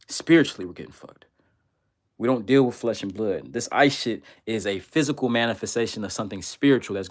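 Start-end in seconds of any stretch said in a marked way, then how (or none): 0.6-1.2 ominous low murmur. Acted. Dramatic refrain about being doomed.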